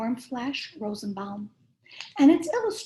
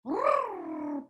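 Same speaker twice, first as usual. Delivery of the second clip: a rolled-R engine purr, a bit higher; airplane purr; 8 semitones higher than usual. A narrator's reading. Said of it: "purred an airplane".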